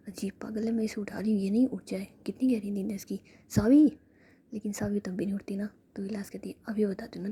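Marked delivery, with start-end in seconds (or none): 3.5-3.8 sudden loud call of her name; loud wake-up call to sleeping Saavi. Acted. Calling sleeping girl awake.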